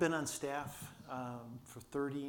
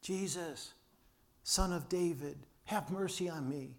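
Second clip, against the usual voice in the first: raised-pitch mock shout, held back; pretend shout; 4 semitones higher than usual. Blind beggar calls to Jesus in the crowd, pretend shout. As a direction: call out as if shouting, without really yelling. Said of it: "So he shouts".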